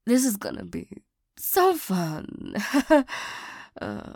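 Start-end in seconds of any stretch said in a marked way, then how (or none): 2.6-3.4 short dry chuckle; wry laugh. Acted. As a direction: laugh it off wryly. Dreads guarding the ex.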